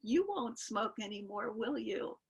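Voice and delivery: soft, gently coaxing imitation; very sweet. Guru asking a young devotee to quit smoking, very sweet. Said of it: "very sweetly, says".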